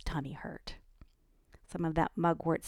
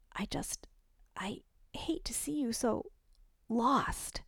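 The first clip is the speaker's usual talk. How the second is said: softer, half-whispered concern; soft worry; 6 semitones higher, 4 dB quieter, slower than usual. A narrator's reading. Ellie telling Annika she worries, soft whisper. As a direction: breathe it out gently.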